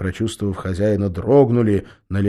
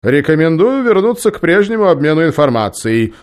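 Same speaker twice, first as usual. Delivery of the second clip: louder, higher spiteful suggestion; 9 semitones higher, 10 dB louder than usual. A narrator's reading. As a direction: spit it out with malice. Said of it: "злобно предложил он".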